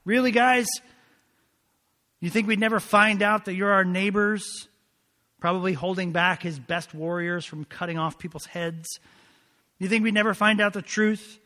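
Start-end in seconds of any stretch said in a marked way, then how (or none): 0.0-4.7 loud, high, incredulous challenge; indignant disbelief. Acted. Joshua confronting the Gibeonites who tricked him, indignant and incredulous. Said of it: "he says essentially". 9.8-11.4 raised, louder indignant question; incredulous challenge. Acted. Joshua challenging the Gibeonites over their deception, incredulous. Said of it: "he says essentially".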